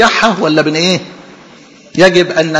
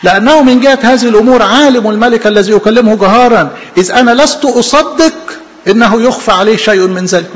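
declaiming loudly; 5 semitones higher, 4 dB louder than usual. Acted. Preacher declaims Paul louder.

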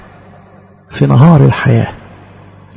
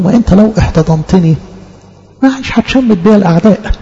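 raised, earnest plea to God; pleading prayer; 4 semitones higher than usual. Acted. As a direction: argue with God, pleading and higher. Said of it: "حلو المحاجاة مع ربنا". (محاجاة متوسلة بصوت أعلى)

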